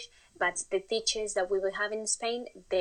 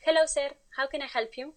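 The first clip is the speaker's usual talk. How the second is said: bright, higher customer-service voice; eager server greeting; 6 semitones higher than usual. Retold or imitated. Greeting her first customer, mock eager and higher. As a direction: play the overeager new cashier. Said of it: "and I go".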